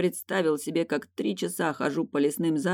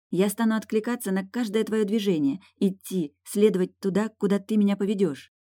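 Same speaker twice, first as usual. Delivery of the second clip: wife voice; 5 semitones higher than usual. Acted.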